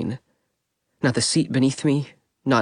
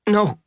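gasped; 8 semitones higher than usual. A narrator's reading. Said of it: "I gasped".

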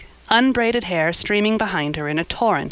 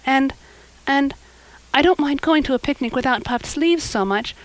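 put-on slightly higher girlish voice, mildly worried; anxious girl; 5 semitones higher than usual. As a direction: confide a nagging worry earnestly. Anne confides her worry.

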